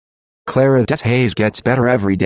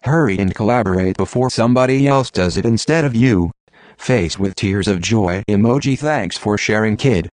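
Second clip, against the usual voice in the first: computer-generated voice. Acted. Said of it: "using a computer-generated voice".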